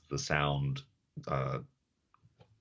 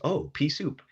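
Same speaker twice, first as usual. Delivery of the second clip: much higher, squeaky little bug voice; 12 semitones higher than usual. Retold or imitated. Tiny bug in the cartoon spots the pea, squeaky. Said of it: "a little bug picks it up and goes".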